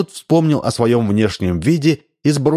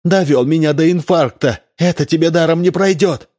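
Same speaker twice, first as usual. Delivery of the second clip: furious; 7 semitones higher than usual. A narrator's reading. Wife threatening husband, furious yell. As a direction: rage at the man.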